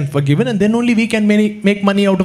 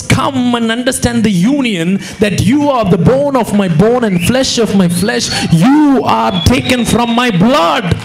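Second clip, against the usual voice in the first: shouted Jesus declaration. Acted. Preacher voicing Jesus, shouting.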